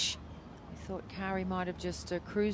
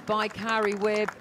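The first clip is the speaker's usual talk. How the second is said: excited; 3 semitones higher, 6 dB louder than usual. Real, not acted. Putt drops, commentator reacts.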